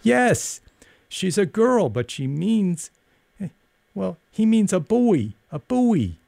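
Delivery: put-on high-pitched clamoring kids; children crying out. A narrator's reading. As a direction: pipe up high, explaining eagerly for her. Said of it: "let the other three cry for her".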